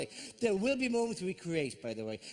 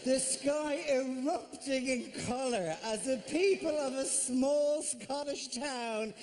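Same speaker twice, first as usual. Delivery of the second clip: mock epic narration; 5 semitones higher than usual. Epic mock-dramatic firework description.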